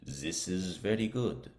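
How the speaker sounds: learner carefully copying a heard phrase; practicing imitation. Shown as a demonstration. Learner imitates what was heard, practicing pronunciation. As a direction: repeat it as pronunciation practice, in a slightly altered voice. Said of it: "I'm practicing my pronunciation".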